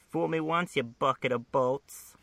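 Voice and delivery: a hint of Harley taunting a robot; Harley Quinn impression. Podcaster mimics Harley swinging her hammer, light mock voice. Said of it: "That's my Harley impression".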